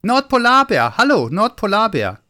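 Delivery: put-on high, loud child-like hail; loud call. A narrator's reading. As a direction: call loudly into a cave. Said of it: "rief laut".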